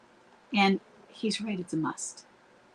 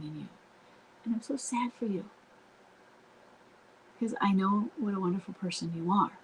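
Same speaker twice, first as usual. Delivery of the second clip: said very calmly. Shown as a demonstration. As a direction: reassure him gently without pleading. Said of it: "very calmly".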